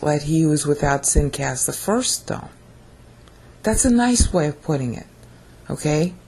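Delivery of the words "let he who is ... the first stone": calm. Acted. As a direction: say it evenly, no heat at all. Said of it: "he just very calmly says".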